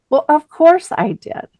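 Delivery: mildly affronted, as if it were obvious; indignant daughter. Retold or imitated. Daughter to mom questioning her eye contact, indignant.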